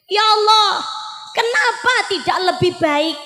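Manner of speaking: dying man's cry. Retold or imitated. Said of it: "Sing nomor kalih".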